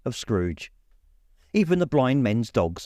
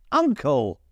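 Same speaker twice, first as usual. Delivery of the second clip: pleading; 4 semitones higher than usual. A narrator's reading. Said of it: "pleaded the nephew".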